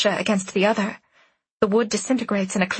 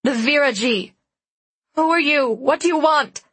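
commanding, higher and louder; imperial; 5 semitones higher, 4 dB louder than usual. Acted. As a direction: demand it like a queen. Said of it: "try to sound imperial".

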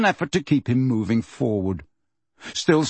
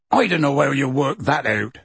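impatient. Acted. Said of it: "said Hagrid impatiently".

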